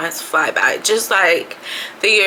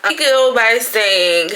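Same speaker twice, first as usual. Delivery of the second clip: whispered aside; 3 semitones higher, slower than usual. Real, not acted. Aside about camera.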